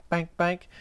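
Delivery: crow squawk. Retold or imitated. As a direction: caw it like a bird stuck in a duct. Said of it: "like a crow stuck in an air duct".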